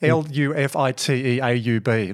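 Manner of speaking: "L U F I T E A U B" letters spelled in reverse order; spelling backwards. Shown as a demonstration. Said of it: "you give me a word".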